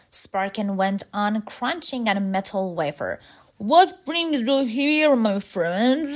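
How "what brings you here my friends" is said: higher, slow robot-leader voice; slow, lifted robot character voice. Acted. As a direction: question guests as a grand robot host. Robot leader questions guests.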